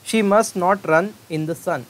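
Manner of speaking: very slow, loud example read; slow dictation. Shown as a demonstration. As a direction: drag it out for the class. Teacher reads example sentence.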